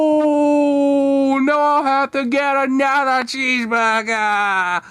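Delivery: high, loud, panicked cry; a frantic high shout of distress; panicked wail. Acted. Mister Lunt panics.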